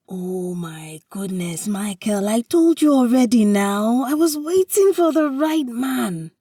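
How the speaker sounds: builds from a whisper to a high, loud outburst; exasperated at her teasing husband, rising loud; frustrated. Acted. Wife scolds teasing husband, whisper building to frustrated high shout. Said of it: "she says in frustration".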